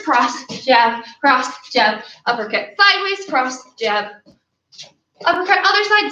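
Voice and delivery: talking while exercising; breathless between punches; out of breath. Real, not acted. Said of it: "tired of talking while exercising".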